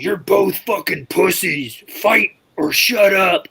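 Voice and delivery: slow, drawn-out mock holler; imitated heckler's slow call; retold heckle. Retold heckle between two rivals.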